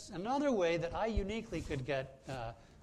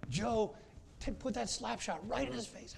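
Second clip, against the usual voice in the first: mock goalie yell; 7 semitones higher than usual. Goalie yelling at teammate.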